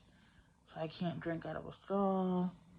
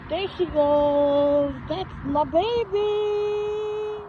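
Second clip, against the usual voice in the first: high, slow, loud cooing call; 11 dB louder, much slower than usual. Real, not acted. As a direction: coo proudly at the little one. Proud call-out to child.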